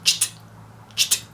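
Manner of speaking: "tcht" as a voiceless burst; tcht sound. Shown as a demonstration. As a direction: click out "tcht".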